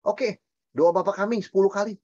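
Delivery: a hint of a scolding priest; mock legalistic preacher. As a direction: lightly mimic a petty rule-giver handing out penance. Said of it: "Mantra itu begini".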